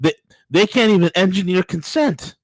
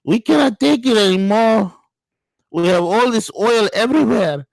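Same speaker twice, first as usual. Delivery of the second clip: mimicking fishermen; 6 semitones higher than usual. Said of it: "this is what they're saying".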